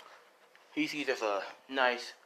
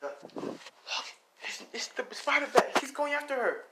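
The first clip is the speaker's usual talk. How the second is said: much higher excited reporter; news reporter; 14 semitones higher than usual. Acted. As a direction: call it live as the chase begins. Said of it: "he's like".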